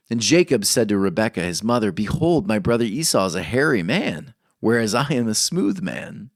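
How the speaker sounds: measured, solemn reading of scripture. Acted. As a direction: read the verses with weight. Reads Genesis aloud.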